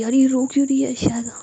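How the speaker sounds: fretting over a crying friend; alarmed, worried inner voice. Acted. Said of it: "वो घबरा जाती है".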